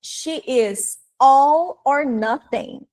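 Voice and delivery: very slow, drawn-out English line; citazione dal film. Retold or imitated. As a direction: quote it slowly, each word stretched for learners. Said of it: "o artista falando".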